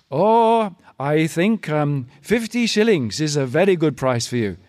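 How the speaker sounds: sweetly naming a cheeky price; brassy gum smacking floozy. Retold or imitated. Market mama naming her price.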